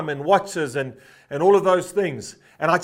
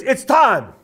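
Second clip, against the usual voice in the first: mock rallying shout, pitched up; retold call-out; 7 semitones higher, 5 dB louder than usual. Preacher calling the men to the front, ringing shout. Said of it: "And he called out".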